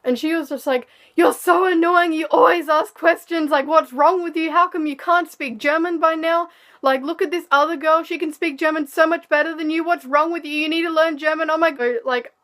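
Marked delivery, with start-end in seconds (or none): 1.1-12.0 higher, louder mock scolding; imitating angry rant. The teacher berating her in front of the class, mock angry rant. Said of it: "was screaming at me in front of the class".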